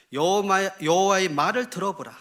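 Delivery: loud, commanding summons; proclaimed rebuke. Acted. God calls this generation to listen, rebuking. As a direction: proclaim it loudly as God's reproach. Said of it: "책망하시는 말씀이에요".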